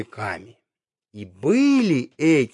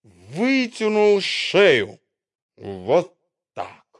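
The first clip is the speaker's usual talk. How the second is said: stretched high; 4 semitones higher, slower than usual. Acted. Acting out stretching neck.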